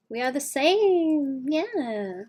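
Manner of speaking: a dragon with a grandma voice. Pretend. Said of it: "That's what my dragon sounds like".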